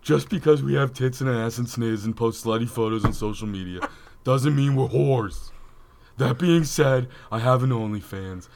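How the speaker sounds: lightly voiced annoying chick. Co-host reading a fan's message, mock chick voice. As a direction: put on a hint of annoying chick. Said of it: "In your best annoying chick voice".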